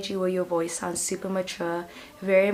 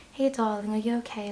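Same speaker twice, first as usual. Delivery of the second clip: comforting mom; 2 semitones higher than usual. Acted. Imagined mom checking on her darling, comforting. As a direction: gently soothe like a caring mom. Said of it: "it's like a mom, you know, and it's very comforting".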